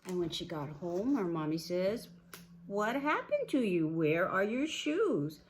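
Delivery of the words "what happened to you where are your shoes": high, loud questioning; shocked mother. Acted. Mommy greeting shoeless Goldilocks, shocked. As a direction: demand it loudly, stretching the last question.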